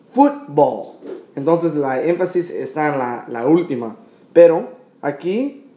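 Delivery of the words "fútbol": "fútbol" said as English football, falling after FUT; English pronunciation. Shown as a demonstration. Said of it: "En inglés es fut".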